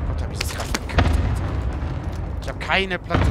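whispered mutter. Real, not acted. Muttering to himself after failure.

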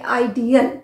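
आइडियल in three parts, eye-dee-al; आइडियल with the a heard in the middle; आइडियल, not idol; ideal. Shown as a demonstration. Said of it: "अ है बीच में".

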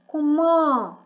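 comment said with a nasal end and no T; comment, silent T. Shown as a demonstration. A teacher showing the class the silent last letter. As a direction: drop the final T in comment. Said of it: "Остання літера ніколи не читається".

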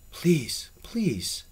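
plead, the second word fading toward a whisper; begging, grave. A narrator's reading. Troubled man begging his friend in the dark, grave plea. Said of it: "it begged".

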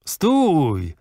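put-on old journalist shouting stop. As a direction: cut him off with a shout. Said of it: "krzyczał Bernard".

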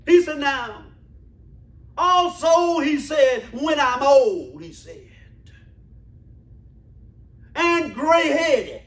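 call-out preaching with he said refrains; emphatic sermon cadence. Acted. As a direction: preach each phrase and punch it.

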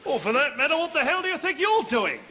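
defiant, cheeky tone; insolent retort. Acted. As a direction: throw the challenge straight back. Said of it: "in that tone of voice".

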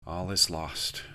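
low, soft, defeated. Acted. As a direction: let it sink, beaten. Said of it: "Zuzuzos said, defeated".

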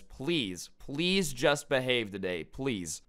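weary, understated appeal; pleading. Retold or imitated. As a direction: beg gently, drawing out each please. Teacher pleading with the troublemaker.

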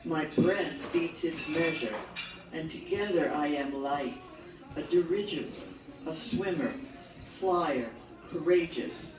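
deliberate verse recital with pauses after short phrases; poetry recital, each image set on its own; poem reading. Acted. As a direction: read it line by line, letting each phrase fall. Reads poem titled Courage.

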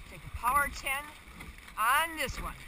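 shouted push for effort; loud power ten call. Real, not acted. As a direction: drive the crew hard. Coxswain calling a power ten.

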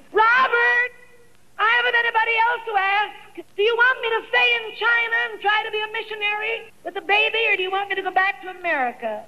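high and hurried anguished questions; urgent plea. Retold or imitated. Widow at grave asking dead husband what to do, hurried high plea. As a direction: beg him for an answer, rushing.

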